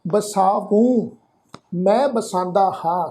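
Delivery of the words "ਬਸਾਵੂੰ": ਬਸਾਵੂੰ drawn out slowly; pronunciation demo. Shown as a demonstration. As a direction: say ਬਸਾਵੂੰ slowly, holding the long vowels. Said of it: "ਉਚਾਰਨ ਕਰਾਂਗੇ". (ਹੌਲੀ, ਲਮਕਾ ਕੇ ਬਸਾਵੂੰ ਦਾ ਉਚਾਰਨ)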